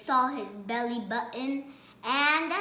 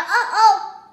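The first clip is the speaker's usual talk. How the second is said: high, loud uh-oh; surprised uh-oh; 8 semitones higher, 14 dB louder than usual. Pretend. Child telling the story yelps uh-oh at the spill, high and loud. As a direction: gasp it like a spill just happened.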